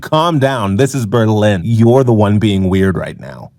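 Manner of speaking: low, lightly voiced deadpan companion; unbothered reply. Crush dismissing his freak-out in Berlin, low and unbothered.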